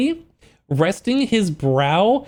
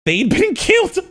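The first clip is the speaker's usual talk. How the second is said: dramatic reading; 11 semitones higher than usual. Acted. Reads book line dramatically.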